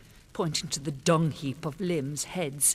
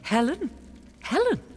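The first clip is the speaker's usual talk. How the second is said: high loud disbelief; incredulous outburst; 7 semitones higher, 6 dB louder than usual. Acted. Queen scoffing at the king's question, incredulous and loud. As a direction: throw her name back high and loud.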